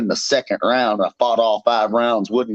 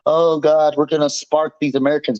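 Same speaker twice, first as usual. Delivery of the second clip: higher mock British taunt; mocking rival; 4 semitones higher than usual. Fighter mocking his rival's boast, higher mock taunt. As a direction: sneer it out like the rival bragging. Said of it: "Michael Venom Page talking about".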